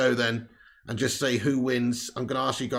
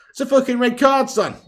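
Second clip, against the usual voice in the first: loud, high outraged yell with a laugh; laughing shout; 8 semitones higher, 6 dB louder than usual. Real, not acted. Outraged at the foul.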